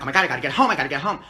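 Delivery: hurried mock panic, understated; mock freak-out. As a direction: act out a mild flap. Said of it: "I'm freaking out, being like".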